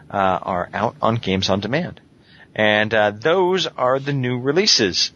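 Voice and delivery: winded after a long list; slightly breathless, catching air; out of breath. Real, not acted. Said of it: "So yeah, I'm a little winded".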